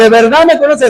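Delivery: mildly mocking question; sarcastic. Preacher voices Jesus doubting his listeners' claim, sarcastic. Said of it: "Está hablando de manera sarcástica".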